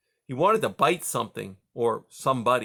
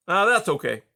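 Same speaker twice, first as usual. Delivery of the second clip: called back; 7 semitones higher, 7 dB louder than usual. A narrator's reading. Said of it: "Junior called back".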